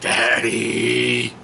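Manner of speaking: put-on whiny kid. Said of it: "he's got to be like".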